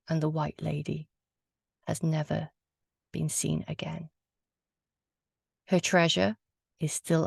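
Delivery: measured storytelling with suspenseful pauses; ghost story narration. A narrator's reading. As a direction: tell the legend phrase by phrase, leaving pauses. Tells a ghost legend aloud.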